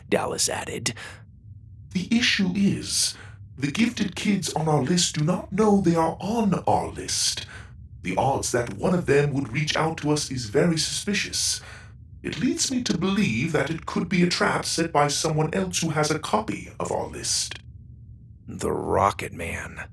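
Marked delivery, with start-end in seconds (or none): 1.9-17.6 a cautious machine advising the captain; serious robot. Acted. Goro warns of trap. 18.5-19.9 low, slow mumble; mumbled. Acted. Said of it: "Doug mumbled".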